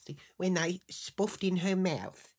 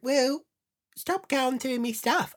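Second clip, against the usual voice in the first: higher, raised-voice protest; defensive retort; 9 semitones higher, 4 dB louder than usual. Retold or imitated. Husband caught with his tapes, imitated as a high defensive protest. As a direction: imitate an affronted husband, pitched up.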